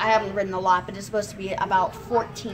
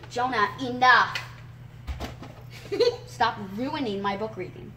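scolding. Real, not acted. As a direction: shut the brother down firmly. Scolding interrupting little brother.

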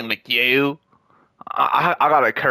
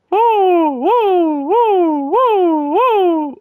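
high, loud repeated woo; hype cheering; 6 dB louder, much slower than usual. Real, not acted. Hyping up the team at game time, loud whoops. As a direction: whoop like the crowd just went wild.

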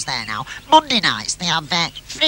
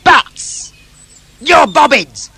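high, loud jeer at the bats; mocking holler; taunting yell; 7 semitones higher, 9 dB louder, much slower than usual. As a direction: shout it through the mesh to wind them up. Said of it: "right up to the mesh and go".

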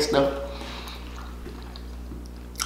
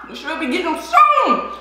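ordinary delivery

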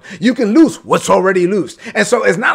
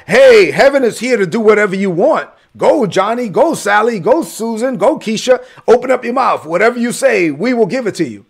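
mock hype; 3 semitones higher, 4 dB louder than usual. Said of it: "so it wasn't like".

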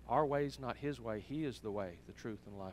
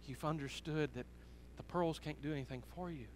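soft, tender voice of a moved father; moved to tears; 6 dB quieter than usual. Retold or imitated. Father comforting his daughter about the pearls, softly moved. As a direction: gently reassure her, understated emotion. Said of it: "and he was even crying".

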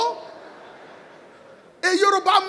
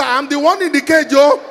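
loud, fast frantic begging; man locked in his own lion cage begging loudly; panicked pleading; 6 dB louder than usual. Acted. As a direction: plead with the police to hurry. Locked in cage, calling police.

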